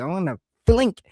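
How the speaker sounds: high, fussy scolding; a hint of a nagging mother; fussing mom voice. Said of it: "I've been like".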